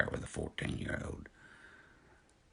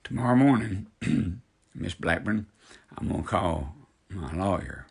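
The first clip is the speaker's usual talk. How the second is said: loud; 3 semitones higher, 7 dB louder than usual. Real, not acted. Threatening to call his lawyer.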